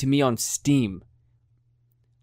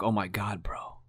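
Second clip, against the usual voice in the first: near-whispered fake dismay; low, hushed put-on disbelief; mock hushed shock; 3 semitones lower, 7 dB quieter, slower than usual. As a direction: imitate a stunned friend, very soft. Acts out friend's grave last message.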